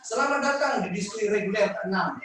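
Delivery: reciting a pantun. Acted. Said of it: "Pantun saya ini".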